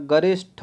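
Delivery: गरिष्ठ with a puffed ṭho; aspirated ending. Shown as a demonstration. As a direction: lean on the breathy ठ in गरिष्ठ. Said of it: "ट नहीं होता".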